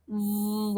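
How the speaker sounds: V said with a long vibrating "vvv" buzz; a drawn-out, buzzing V for the class. Shown as a demonstration. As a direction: let V buzz on the lips. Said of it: "your mouth is vibrating when you pronounce V".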